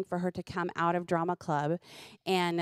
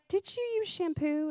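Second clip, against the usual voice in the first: questioning mom; 10 semitones higher than usual. Retold or imitated. Mother questioning son in retelling.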